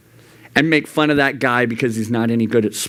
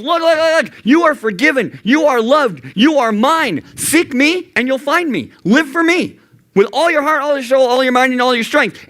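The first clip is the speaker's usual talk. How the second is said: high, pleading reassurance; God reassuring; 12 semitones higher than usual. Retold or imitated. God reassuring a forgiven teen, high and earnest. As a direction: comfort them as God would. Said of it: "That's why God goes".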